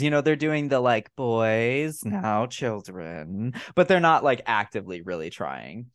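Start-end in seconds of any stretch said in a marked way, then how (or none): 1.1-3.5 slow, drawn-out mild chiding; weary mock "now, now" tone; half-hearted parental scolding. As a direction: imitate parents feebly calming squabbling kids. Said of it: "not really trying to diffuse".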